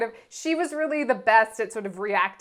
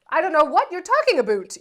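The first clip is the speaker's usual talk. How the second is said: lightly faked Canadian accent, louder; fake Canadian accent; 4 semitones higher, 4 dB louder than usual. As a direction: feign innocence in a Canadian accent. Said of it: "let her accent come out".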